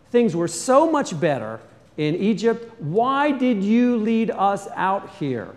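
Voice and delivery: high, loud, slow complaining people; grumbling crowd. Retold or imitated. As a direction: whine and accuse Moses. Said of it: "they're always asking".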